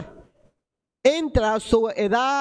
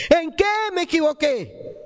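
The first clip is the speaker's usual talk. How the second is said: mother's retold cry; 5 semitones higher than usual. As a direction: imitate a mother crying out in reproach. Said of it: "mi madre me gritaba". (grito imitado de una madre, sin gran volumen)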